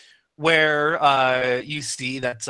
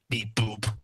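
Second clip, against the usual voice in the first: soft robot beeps, quieter; 4 semitones lower, 9 dB quieter than usual. Acted. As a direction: beep it out like a little robot. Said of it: "Says the robot making robot noises".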